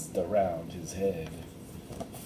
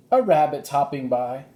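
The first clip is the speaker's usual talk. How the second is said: higher, louder eager call; eager girl; 5 semitones higher, 5 dB louder than usual. Acted. Annie telling Jack about the rabbit, eager. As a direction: point it out with excitement.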